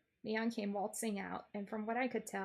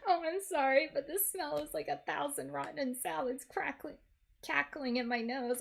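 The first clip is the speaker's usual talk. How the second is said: laughing; 5 semitones higher, 4 dB louder than usual. Real, not acted. Laughing through the line.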